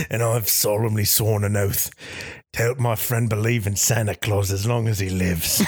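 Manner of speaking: solemn mock action-hero oath; lightly voiced British tough guy; Jason Statham. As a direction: swear it like a trailer hero. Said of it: "My name is Jason Statham".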